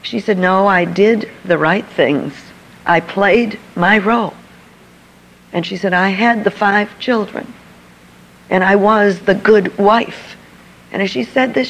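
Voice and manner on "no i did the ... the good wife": slow tearful confession. Retold or imitated. Mother-in-law admits her loveless marriage, slow and tearful. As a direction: let each phrase come out slowly through tears. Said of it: "she is crying".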